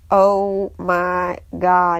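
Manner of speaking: slow, drawn-out shock, retold; mock stunned reaction. Stepkids see stepmom's cast, slowly stunned. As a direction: imitate kids taken aback, word by word.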